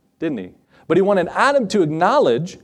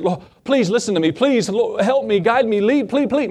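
rising, higher-pitched mock begging; mock pleading; 4 semitones higher than usual. Believer tugging at the Holy Spirit's coattails, mock pleading. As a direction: beg urgently, hammed-up, words piling up.

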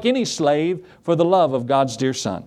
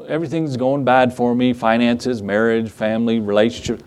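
low, sinking list of troubles; mildly acted self-pity; glum complaint; 4 semitones lower than usual. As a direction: imitate a downcast grumbler, pitch sagging. Voices a complaining believer.

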